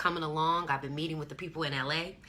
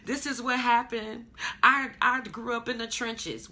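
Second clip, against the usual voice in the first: higher-pitched bragging from the hood; mock hometown bragging; 6 semitones higher than usual. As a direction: show off where you came from, a bit higher. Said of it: "ride around your hood and say".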